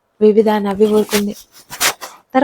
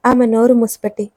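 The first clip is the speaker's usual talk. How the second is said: plain reading voice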